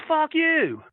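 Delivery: retold angry yell. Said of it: "And he goes, and he goes".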